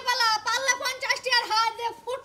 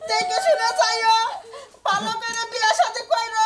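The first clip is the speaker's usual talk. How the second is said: hammed-up weeping send-off; mock tearful farewell; 3 dB louder than usual. Wife sending husband off to marry, mock tearful wailing. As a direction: call out advice through mock sobs. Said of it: "এই দুই শালিয়ে যে কান্দা গাড়ি শুরু করছে".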